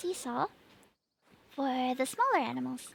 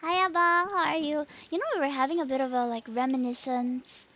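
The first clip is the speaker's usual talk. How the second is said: put-on Singaporean accent. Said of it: "but can try lah".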